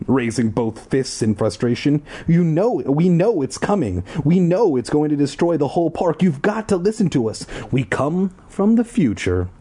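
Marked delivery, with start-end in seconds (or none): 2.2-9.5 frantic raised plea. Acted. Desperately pleading with guards.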